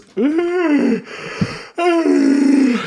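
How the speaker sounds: long yawning sigh; big yawn. Real, not acted. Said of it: "I'm just yawning".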